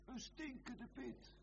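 high, urgent pulpit declamation; impassioned preaching. Acted. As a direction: preach it in a high, driving chant. Preaching at full force.

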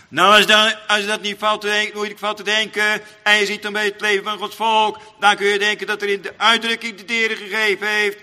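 loud, half-chanted pulpit cadence; preaching at full force. Acted. Preacher extols the godly man to the congregation, chanting. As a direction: lift the voice into sing-song preaching.

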